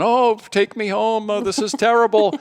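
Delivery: high whiny wail, slowed right down; a hammed-up child pleading to be taken home; mock emotional child. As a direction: ham up a kid begging to go home. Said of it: "he'd probably get all emotional again".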